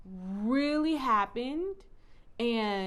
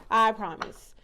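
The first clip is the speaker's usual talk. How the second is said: "I promise" said louder, with emphasis on "I"; 5 dB louder, slower than usual. Real, not acted. Reader insists to her viewers she is fine, emphatic. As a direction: insist firmly that you're fine. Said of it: "I'm okay".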